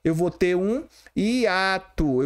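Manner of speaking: eu vou ter um hiato, said slowly and deliberately; teacher slowing down on eu vou ter um hiato; slow emphatic demo. Shown as a demonstration. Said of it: "no lugar de ter um ditongo crescente".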